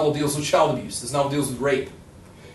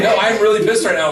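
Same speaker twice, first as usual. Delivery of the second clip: raised, loud mock annoyance; imitated anger; 6 semitones higher, 7 dB louder than usual. Angry texter correcting a joking friend, mock annoyed. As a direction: insist loudly, acting pissed off. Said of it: "somebody's actually angry at you".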